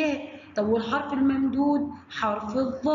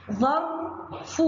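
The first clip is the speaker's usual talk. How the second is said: ظرف said slowly, split into syllables; much slower than usual. Shown as a demonstration. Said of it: "الكلمة الأولى".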